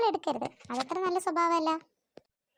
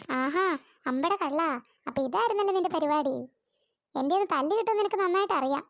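louder, scolding mother; 2 semitones higher, 4 dB louder than usual. Acted. Mother scolds son for stealing sugar, louder. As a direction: tell the little thief off.

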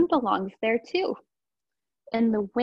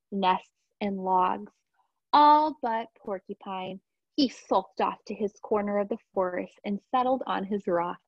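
gentle bedtime read-aloud; storybook reading; 3 semitones lower than usual. Acted. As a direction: read it like a story for little kids. Reads a picture book aloud.

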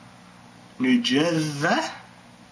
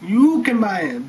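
mock shout; 4 semitones higher, 4 dB louder than usual. Shout heard.

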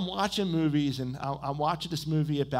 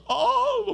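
loud, high-pitched comic wail; hammed-up crying "oh", held high and loud; mock wail; 11 dB louder than usual. Preacher imitating himself crying at a sad movie, mock wailing. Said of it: "I'm sitting there going".

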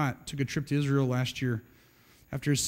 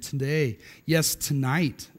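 slow, weighted "tonight"; emphasis on tonight; 3 semitones lower, slower than usual. Shown as a demonstration. Preacher pointing out Jesus's warning, stress on "tonight".

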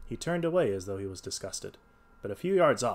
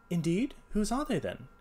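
raised, polite detective voice; light voicing of a clever detective; Holmes voice; 10 semitones higher than usual. A narrator's reading.

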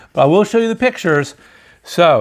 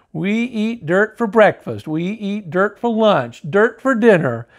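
mad listing; 4 semitones higher than usual. Acted. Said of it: "just plain mad".

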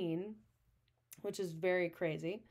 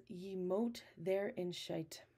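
slow, dark mock Scottish accent; a light Scottish accent, played dark and mysterious; slow, mysterious Scottish accent for an old line; slower than usual. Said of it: "I love saying it like this little Scottish accent".

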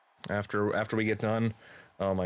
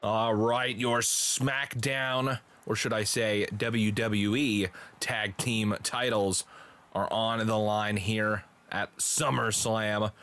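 drawn-out match announcement, stretched key words; play-by-play voice, measured and punchy; wrestling announcer; slower than usual. Acted. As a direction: announce the title match slowly and with showmanship. Live wrestling commentary.

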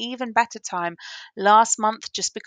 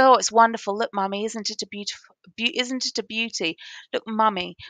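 excited; 3 semitones higher, 4 dB louder than usual. Retold or imitated. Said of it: "she's very pleased with the ring".

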